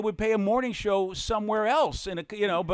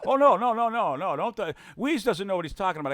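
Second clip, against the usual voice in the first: mock salesman; 2 semitones higher than usual. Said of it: "carpet salesman reply".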